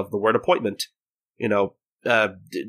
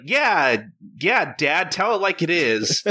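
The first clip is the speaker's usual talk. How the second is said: put-on higher little-kid voice egging Dad on; baby cheering; 6 semitones higher, slower than usual. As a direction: pipe up like a toddler agreeing with Dad. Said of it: "I love that you're giving this kid a voice".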